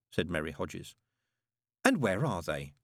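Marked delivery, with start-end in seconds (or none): 1.8-2.7 sweetly. Acted. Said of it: "said Aziraphale sweetly".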